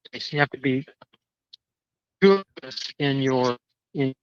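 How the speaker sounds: words dropping out as the phone signal breaks up; crackly cordless phone. Real, not acted. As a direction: voice fading in and out on a bad cell line. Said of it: "You're fading in and out".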